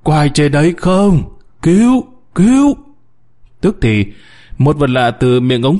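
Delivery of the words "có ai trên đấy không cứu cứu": desperate miner's cry for rescue; shouting for help. A narrator's reading. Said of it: "ông lại ghé vào miệng ống gào lên".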